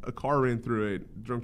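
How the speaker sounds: lightly voiced TV anchor teasing a headline; mock news anchor. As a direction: ham up a doom-and-gloom news intro. Mocking a Fox News anchor.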